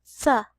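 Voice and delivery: breathy th, tongue between teeth; th sound. Shown as a demonstration. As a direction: say only the th. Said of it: "Here's another one".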